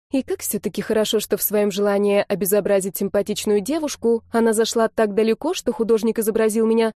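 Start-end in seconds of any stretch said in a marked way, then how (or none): none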